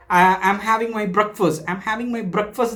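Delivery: slow and careful, word by word; slow model sentence. Shown as a demonstration. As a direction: model the sentence slowly for the learners. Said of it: "ഒരിക്കലും breakfast ഒന്നുമില്ല".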